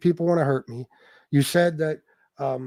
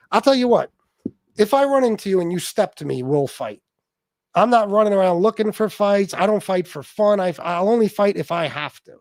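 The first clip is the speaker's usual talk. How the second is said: angry threat; 4 semitones higher than usual. Real, not acted. Threatening challengers to fight.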